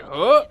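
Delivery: loud imitated grunt; abrupt creature huff; Goatman noise. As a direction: mimic Goatman's short cry. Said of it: "I know he goes like".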